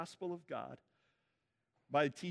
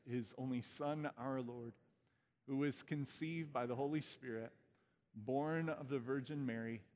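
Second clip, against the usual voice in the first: creed recitation. Acted. Leads Apostles' Creed recitation.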